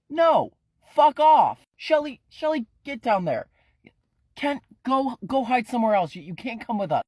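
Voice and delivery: high, loud furious yelling; angry shout. Acted. Ephraim yelling at Kent to hide elsewhere, furious shout. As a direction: drive him off with a roar.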